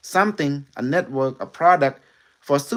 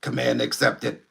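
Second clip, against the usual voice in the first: Unimetric One. Acted. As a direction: speak like an alien intelligence through a medium. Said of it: "you wanna meet, uh, Unimetric One?".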